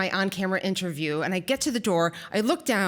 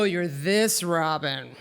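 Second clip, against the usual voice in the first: Darth Vader breathing; 4 semitones lower, much slower than usual. Retold or imitated. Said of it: "he breathed like Darth Vader".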